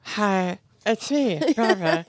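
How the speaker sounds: lightly voiced creepy visitor; Barbara voice. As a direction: call out coyly at the window. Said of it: "the speaker does Barbara".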